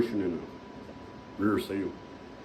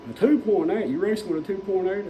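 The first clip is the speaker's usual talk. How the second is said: much higher, incredulous echo of the engine size; amazed; 7 semitones higher than usual. Retold or imitated. Burly stranger hearing the racer's small engine size, incredulous. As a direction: repeat "two point eight" like you can't believe it.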